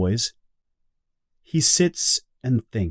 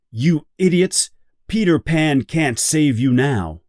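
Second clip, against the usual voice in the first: higher, scornful you idiots; taunting pirate; 4 semitones higher than usual. Acted. Captain Hook mocks the captured children, scornfully. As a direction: sneer at the captives like a villain.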